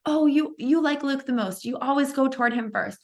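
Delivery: mock the siblings' jealous grumble; kids complaining. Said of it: "my other three kids say".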